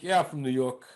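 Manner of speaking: lightly put-on New York American accent. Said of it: "when I did an American accent".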